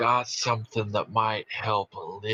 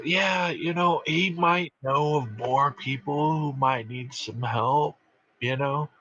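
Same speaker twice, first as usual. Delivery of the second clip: in character; 6 semitones higher than usual. Acted. Player voices his character to NPC.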